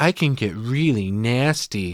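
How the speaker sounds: put-on very slow, stretched-out baby talk. Retelling a movie scene, quoting Tammy: Tammy baby talk voice. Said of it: "Tammy's doing this baby talk shit the whole time".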